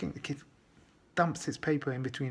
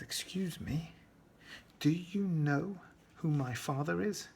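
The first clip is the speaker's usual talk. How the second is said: a lightly voiced, slightly higher cheeky boy; cheeky kid; 4 semitones higher, slower than usual. Cheeky kid asks the strict teacher if he knows his father, lightly voiced. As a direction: play the smug kid testing the teacher.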